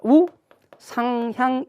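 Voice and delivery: "우상향" slowly, each syllable held; 한 음절씩 강조. Shown as a demonstration. Teacher spells out the new term. ("우상향"을 높은 음으로 길게 끊어서)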